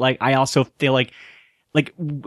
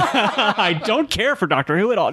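joking disdain through laughter; 7 semitones higher than usual. Pretend. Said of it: "No, I'm kidding".

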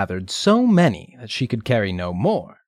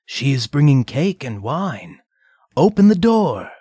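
put-on wolf faking girl voice; 5 semitones higher, 4 dB louder than usual. Wolf poses as Redcap.

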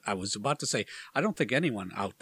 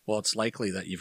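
ordinary talk

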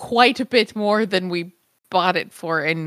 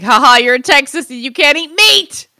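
louder mock gloating ha-ha; sarcastic taunt; 3 semitones higher, 5 dB louder than usual. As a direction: taunt with heavy irony. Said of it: "sarcastic, ironic".

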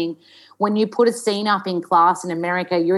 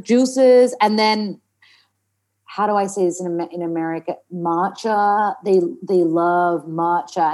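laboured General American, rhotic r's; American accent. Shown as a demonstration. Actor finding it harder than expected, American accent. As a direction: struggle along in an American accent. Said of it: "we'd talk in an American accent".

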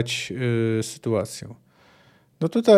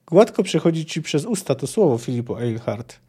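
cool, even reply; calm rebuke to a shouting rival. Acted. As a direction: answer calmly, unbothered. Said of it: "powiedziała spokojnie".

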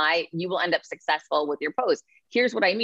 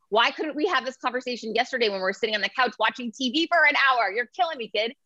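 exasperated mom; 5 semitones higher than usual. Retold or imitated. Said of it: "my life is spent saying that to him".

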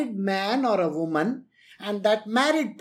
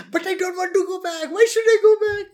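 much higher, rising to a loud indignant whine; John Oliver whine; 9 semitones higher, 4 dB louder, faster than usual. Retold or imitated. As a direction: squeal the protest like a comic. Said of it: "this is how John Oliver does it".

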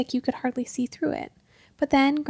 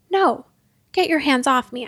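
sharp refusal; 5 dB louder than usual. Acted. Peter shaking off his father.

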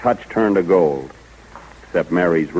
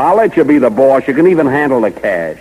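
louder, higher, eager pledge; eager promise; 6 semitones higher, 5 dB louder than usual. Acted. Jack eagerly promising Mary she can run things, louder. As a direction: sell her on it with rising eagerness.

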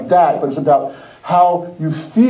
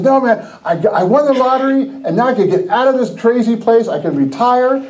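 higher-pitched, mildly excited retelling; 5 semitones higher than usual. Retold or imitated. Friend telling the preacher he won the lottery, excited. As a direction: imitate a friend thrilled with his win.

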